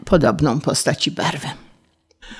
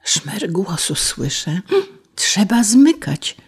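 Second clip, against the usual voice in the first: a hushed, slow, frightened murmur; a soft scared ladybird hush; fearful whisper; 3 semitones higher, 4 dB quieter, slower than usual. Acted. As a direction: whisper in fear of a human nearby. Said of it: "z trwogą zaszeptała biedronka".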